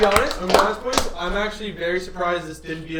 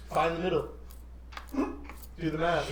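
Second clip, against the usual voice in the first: oddly hushed instruction; 2 semitones lower, 11 dB quieter, slower than usual. Real, not acted. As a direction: give the order quietly, slowing right down at the end. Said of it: "why do you wanna say it like that".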